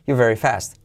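"you're very fast" quick, you're squeezed to ju. Shown as a demonstration. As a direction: rush "you're very fast" into one breath. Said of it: "dicho rápido es".

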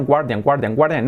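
guardian as Spanish GWAR-dian; pronunciación castellanizada. Shown as a demonstration. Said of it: "como se parece al castellano". (guardian con la u, 'guar-dian')

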